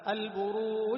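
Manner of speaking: loud "البروج" with long u and bounced jeem; recited "البروج", final j popped; qalqala on jeem. Shown as a demonstration. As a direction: draw out "البروج", then release the jeem with a short echo. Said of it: "القلقلة".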